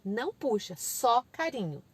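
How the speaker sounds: put-on slow, simple toddler-directed phrases; unhurried parent teaching; gentle correcting parent. Shown as a demonstration. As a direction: kindly explain to a small child.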